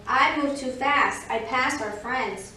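lightly voiced, emphatic rabbit; rabbit character. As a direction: lean on each word as the rabbit. Rabbit's excuse against tortoise's.

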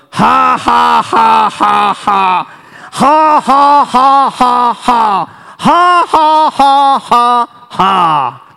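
big, high, measured ha-ha-ha; deliberate preacher's laugh. Shown as a demonstration. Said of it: "You laugh".

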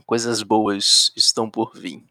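low, slow menacing tease; sinister villain voice. Acted. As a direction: threaten like a cartoon villain. Villain tease before evil laugh.

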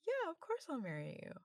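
high, emotional yes; overjoyed, voice up high; accepting a proposal. Real, not acted.

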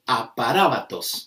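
aparábatos with the accented second A stressed. Shown as a demonstration. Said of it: "con acento en la A".

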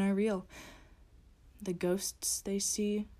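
cold, threatening monster voice with whispers; menacing creature of the night. Acted. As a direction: speak as a gloating predator.

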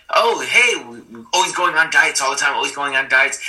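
high, bright-faced mock chirp about dieting; breezy sing-song pep; cheerful mock. Himself chirping to his wife about diets, a mock cheerful voice. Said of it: "I would be like".

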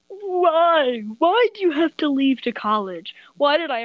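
loud, tearful lament; crying. Acted. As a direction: wail the why. Lament over leaving.

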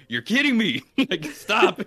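the groom asks again, laughing disbelief; exasperated disbelief. Retold or imitated. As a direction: plead with him to stop, half laughing.

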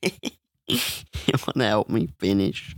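low, slow, sleazy come-on; mock come-on.

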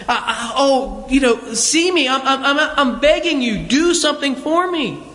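mildly acted plea, halting then rising; begging. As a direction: stammer a little into an imploring request. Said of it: "it's a begging posture".

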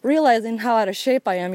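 puffing while hiking uphill; talking between breaths on a climb. Real, not acted. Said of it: "You can hear it".

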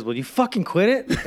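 high-pitched exasperated complaint; acted annoyance. Barber voicing his sprayed coworker to another, acted annoyance. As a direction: play the fed-up coworker.

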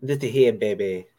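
put-on low, drawling old wrestling promo voice; lightly voiced Southern preacher of a promo; Dusty Rhodes impression. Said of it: "I had to go into some Dusty".

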